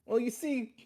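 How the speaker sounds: laying on the Italian mobster charm; smooth-talking wise guy pitching a date; Italian mobster accent. Acted. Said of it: "Your accent's just so good".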